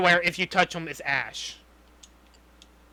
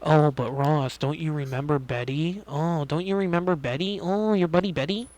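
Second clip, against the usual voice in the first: lightly mocking impression, lower than usual; mocking pleading quote; 3 semitones lower than usual. Mocking the hero pleading with Ross about Betty, mock-soothing. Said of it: "the only way he did it was going".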